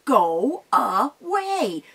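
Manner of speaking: slow, loud, drawn-out troll command; stern troll. Acted. Mama Troll ordering the goat off the bridge. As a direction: stretch it out to scare him off. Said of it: "and she said".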